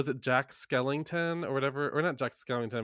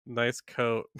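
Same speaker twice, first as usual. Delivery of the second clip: sarcastic. Retold or imitated. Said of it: "This kid just goes".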